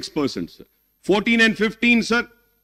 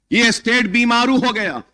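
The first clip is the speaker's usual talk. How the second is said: rapid, rising, louder appeal to the house; impassioned plea; 3 semitones higher, 3 dB louder, much faster than usual. Real, not acted. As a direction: pour it out fast and insistent, building to the end.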